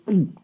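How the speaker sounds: short cartoon gulp, mimicking a kid; imitated gulp. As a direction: mimic a child's exaggerated gulp. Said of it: "Usually to mimic being scared".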